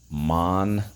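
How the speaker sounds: "Monarch" as mon, long pause, ark; "Monarch" broken apart for dictation; syllable by syllable. Shown as a demonstration. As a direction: sound out "Monarch" slowly in two beats. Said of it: "So let's go".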